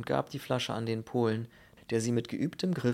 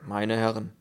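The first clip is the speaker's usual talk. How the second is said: put-on measured Russian-accented address; courteous Russian gentleman's voice; warm Russian bass; 5 dB louder than usual. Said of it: "warme Bassstimme mit russischem Akzent".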